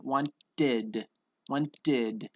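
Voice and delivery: "wanted" in two careful syllables, ending in "did"; slow, teacherly "wanted" with a full id; clear -id ending. Shown as a demonstration. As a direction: sound out "wanted" as want-did. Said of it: "So we would pronounce it".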